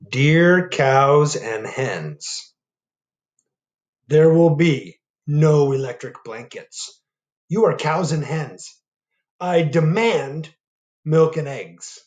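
slow, stern dictated letter; demanding tone. Acted. Farmer Brown typing his stern demand to the animals. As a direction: lay down the law. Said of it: "not a very nice way to ask".

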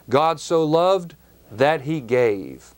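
slow, each word weighted, "loved" peaking; emphatic quote. Shown as a demonstration. Preacher stressing God's giving to the congregation, slowly. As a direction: press on "loved" and "gave" slowly. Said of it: "The emphasis here is on the grace".

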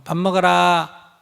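slow, calm call to eat; just let them know, slowly and evenly; patient mother announcing dinner; calm announcement. Shown as a demonstration. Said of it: "이렇게 알리고".

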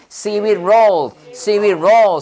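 "seaweed roll" slowly, each word drawn out; careful pronunciation model. Shown as a demonstration. Teacher drilling hard sounds for learners, slow careful "seaweed roll". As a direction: lengthen "seaweed", then let "roll" fall. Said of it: "seaweed 발음 어렵습니다".

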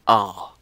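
R as a drawn-out "ah", no r sound; long A sound. Shown as a demonstration. Explaining the macron, R as long open "ah". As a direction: say R like the first vowel of father. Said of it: "sometimes you may get A long A".

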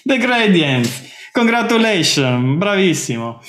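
slow, drawn-out theatrical praise, starting high; lightly hammed-up Italian congratulations; mock Italian acclaim. Acted Italian celebration of the answer.

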